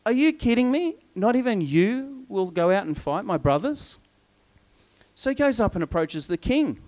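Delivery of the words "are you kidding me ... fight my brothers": high-pitched disbelief easing down; mildly indignant, incredulous questioning; acted incredulity. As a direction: challenge them as if you can't believe it. David challenges his brothers.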